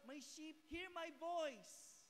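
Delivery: slow, drawn-out Bible quote; slow scripture quote. Acted. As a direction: savor each word of the verse. Quoting Bible slowly. (mabagal na pagsipi ng Bibliya)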